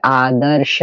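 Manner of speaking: आदर्श drawn out sound by sound, half र before श; sounded out slowly. Shown as a demonstration. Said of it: "अब यहाँ बोलिए, बोलिए". (आदर्श को धीरे-धीरे, र सुनाते हुए बोलें)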